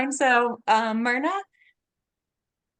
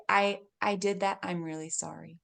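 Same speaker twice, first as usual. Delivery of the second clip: soft, lowered sincere apology; gentle admission, dropping softer at the end; simple apology; 5 dB quieter than usual. Acted. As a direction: own it quietly and plainly. Models simple apology to child.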